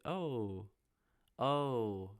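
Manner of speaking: loud mock New Yorker "oh"; New Yorker impression. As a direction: call it out as an exaggerated New Yorker. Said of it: "pretend to talk like a New Yorker".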